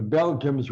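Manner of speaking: "Belgians" said as "BEL-jums"; mispronounced Belgians. Retold or imitated. Boxer addressing the crowd in Zaire, "Belgians" mispronounced as "Belgiums". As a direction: end "Belgians" on an m, imitating the boxer. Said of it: "He always said Belgiums".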